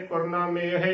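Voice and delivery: ਕਰਨਾ, ਮੇਹ as korna-mehe, run together; joined pronunciation. Shown as a demonstration. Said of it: "ਇਸ ਦਾ ਸ਼ੁੱਧ ਉਚਾਰਨ".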